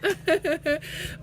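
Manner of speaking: high, loud call and laugh; laughing hail to Monica. Real, not acted. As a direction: shout to Monica across the room. Calling out to Monica.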